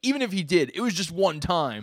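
high, loud sheepish excuse; a boy caught out, still defending; Denji, sheepish. Acted. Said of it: "He's like".

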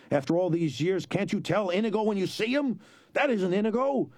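high, scolding Sicilian voice; scornful hunchback. A narrator's reading. Sicilian scolding Fezzik, high and scornful.

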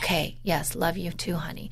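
a softened love you too after a quarrel; calming down. Retold or imitated. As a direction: let the anger drain away. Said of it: "又down下来了".

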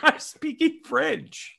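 very high, slow mock French accent; obnoxious fake French. Host answering his critics, hammy French accent. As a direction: gloat in a silly French accent. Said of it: "most obnoxious way to pronounce a word".

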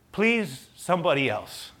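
begging that sinks from high to normal; a last plea, giving up as it goes; pleading. Acted. Moses still begging for a replacement, pleading. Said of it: "But Moses pleaded".

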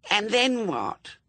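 put-on high, slow little-girl demand. A narrator's reading. Little suspect questions her torturer, demanding. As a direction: challenge them in a high child voice. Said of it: "demanded the suspect".

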